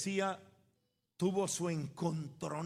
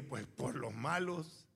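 sheepish answer; 5 semitones lower, slower than usual. Retold or imitated. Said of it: "Yo le dije".

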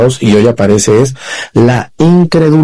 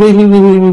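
chatterbox imitation; 7 semitones higher than usual. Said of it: "parecen el Wiri Wiri".

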